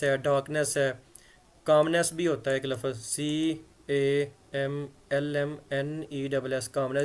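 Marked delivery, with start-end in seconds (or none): 3.0-7.0 slow letter-by-letter spelling. Shown as a demonstration. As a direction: spell each letter slowly. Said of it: "इसमें एल silent रह जाता है". (धीरे-धीरे अक्षर बोलना)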